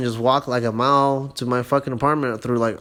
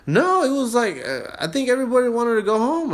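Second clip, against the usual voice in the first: casual high reply; 10 semitones higher than usual. Retold or imitated. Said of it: "I'm like".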